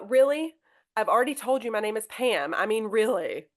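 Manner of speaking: exasperated "Really?" before restating the name Pam; fed up, name already given; annoyed correction. Shown as a demonstration. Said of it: "so just real kind".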